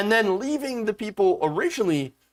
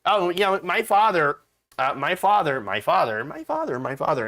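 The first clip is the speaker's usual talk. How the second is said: entitled repeating my father, mocking; drunken posh sneer. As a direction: sneer it like a spoiled heiress. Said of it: "what does that sound like?".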